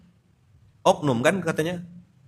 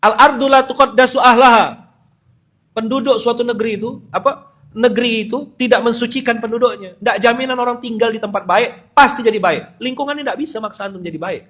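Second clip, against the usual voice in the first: loud, high, full-force sermon; fiery preaching; 8 semitones higher, 7 dB louder than usual. Real, not acted. Preacher driving home the verse to his live audience, loud. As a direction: preach it hard, full throttle. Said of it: "ngegas lupa saya".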